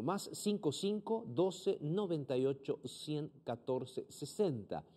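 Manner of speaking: number spelled out slowly, digit by digit; slow dictation. Shown as a demonstration. Slow, careful dictation. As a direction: pastor slowly dictates WhatsApp number to viewers. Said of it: "anotas este número".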